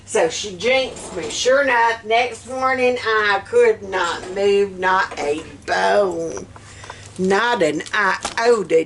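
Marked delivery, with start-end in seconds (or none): 3.0-8.8 "could not move, not a bone" drawn out slowly; emphatic slow stress. Real, not acted. Telling viewers she couldn't move next morning, "not" stressed slowly. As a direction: weigh down each word of "Not an iota".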